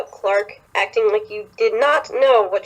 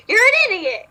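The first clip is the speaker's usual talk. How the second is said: yelling at her friend; 12 semitones higher than usual. Pretend. Friend yelling at her for dating Bellamy, exasperated. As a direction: scold her friend in disbelief. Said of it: "she's gonna be like".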